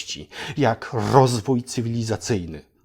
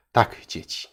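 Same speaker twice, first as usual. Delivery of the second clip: put-on a sly whisper to the kids; 4 semitones lower, 4 dB quieter than usual. Storyteller whispering a secret to the children, sly. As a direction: lean in and whisper it.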